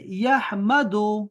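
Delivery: یحمدو drawn out very slowly, syllable by syllable; slow Arabic citation. Shown as a demonstration. Teacher showing Talha the present tense, very slow and drawn out. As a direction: stretch out یحمدو so each sound is clear. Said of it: "اس کا مضارع استعمال کریں گے".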